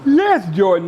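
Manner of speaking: real fan's burst of joy; excited cheer. Real, not acted. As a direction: cheer the big play. Cheering a play on TV.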